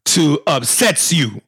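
mock-earnest Magic apology; Magic Johnson apology. Host apologizes as Magic Johnson. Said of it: "I would say".

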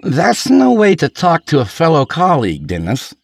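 high, loud mock offence; drunken reproach. Drunk lawyer answers colleague, loud mock reproach. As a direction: protest loudly as the offended drunk.

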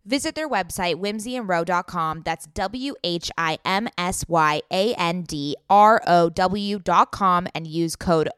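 slow, clearly spelled promo read. Acted. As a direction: spell out the web address for listeners. Reads a sponsor ad.

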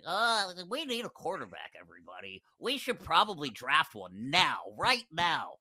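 a mild goofy take on the Raiders owner; Mark Davis impression. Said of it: "he talks like that".

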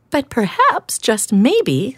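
timid hedgehog offering an idea; gentle hedgehog. Acted.

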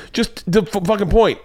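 high, sputtering mock rant; exasperated outburst. Dad cutting off daughters' ice cream argument, exasperated. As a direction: stumble over the swear like a fed-up dad.

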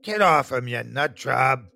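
rough angry yell at someone. A narrator's reading. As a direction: yell it to drive him off. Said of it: "a large man yelled".

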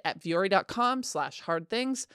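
slow, careful ad read of the web address; spelled out slowly. Shown as a demonstration. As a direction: read the URL slowly and clearly. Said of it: "That's V U O R I".

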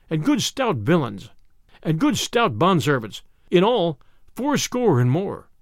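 measured storybook reading; story narration. A narrator's reading. Narrator tells listeners of Robin Hood's woodland feast, measured storytelling. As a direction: narrate the old tale with rolling phrasing.

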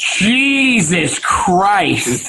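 real disbelief, stretched very slowly; drawn-out exclamation. Real, not acted. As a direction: let it out long and disbelieving. Hearing about hour-long wait.

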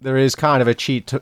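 ordinary talk, nothing marked

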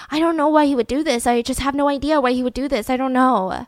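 quick, bewildered insistence; retold confusion. Dad interviewed by police at hospital, confused. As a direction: lightly imitate someone at a loss, words hurrying. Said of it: "he just was so confused".

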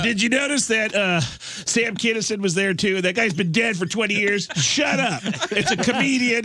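Tom Arnold arguing online; Tom Arnold impression. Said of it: "Tom Arnold fights everyone on the internet and says".

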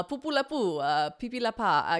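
practice nonsense syllables in mock French; French accent warm-up. Shown as a demonstration. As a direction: try out a badly faked French accent. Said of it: "I'm trying to practice it".

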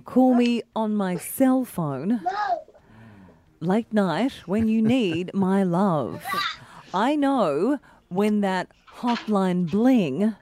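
slow, measured news anchor read; newsreader voice. Acted. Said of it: "puts on her very best newsreader voice".

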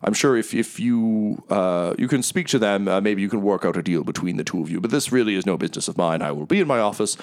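smooth, grand, apologetic host; oil every word with charm; lightly voiced theatrical merchant; Mahadi, gregarious tiger. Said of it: "he says".

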